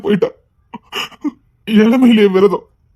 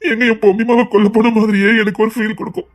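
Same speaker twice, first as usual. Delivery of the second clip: tearful confession. Acted.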